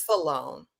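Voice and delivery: "Salone" copied in two syllables, suh-LONE; mimicked mispronunciation. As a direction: quote "Salone" back with the added vowel. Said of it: "You said Salone".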